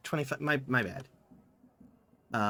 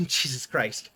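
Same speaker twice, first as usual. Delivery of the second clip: laughing disbelief; 5 semitones lower, slower than usual. Real, not acted. Laughing at the squid name.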